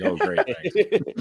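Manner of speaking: slow, laughing sarcastic thanks. Retold or imitated. To the friend who drank his beer, sarcastic and slow. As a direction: drag out a sour laughing thank-you. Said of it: "I'm like".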